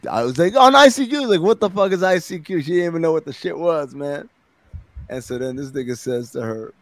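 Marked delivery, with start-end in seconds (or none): 0.1-2.6 mock baffled woman.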